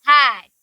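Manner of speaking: हैट drawn out with a long vowel and falling tone; pronunciation demo. Shown as a demonstration. Teacher shows the class how to say हैट, pronunciation demo. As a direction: stretch the vowel of हैट, clearly. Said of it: "साथ में बोलो एक बार".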